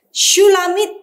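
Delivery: Shulamit sounded out high with rising end; over enunciating. Shown as a demonstration. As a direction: say Shulamit syllable by syllable. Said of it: "teacher models Hebrew word".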